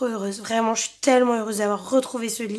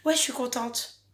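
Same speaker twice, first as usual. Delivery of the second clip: deadpan; 7 dB quieter than usual. Retold or imitated. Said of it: "je ne peux pas, genre, faire".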